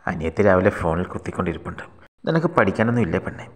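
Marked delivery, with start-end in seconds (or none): 2.2-3.4 higher, sharp scolding of a younger sister; angry scolding. A narrator's reading. Elder sister scolds little sister on phone, angrily. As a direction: scold her for being on the phone. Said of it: "ചേച്ചി ദേഷ്യപ്പെട്ടപ്പോൾ".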